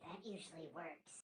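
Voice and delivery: soft whispered aside; a bard muttering to his party. Acted. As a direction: slip it quietly to your friends. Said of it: "I whispered".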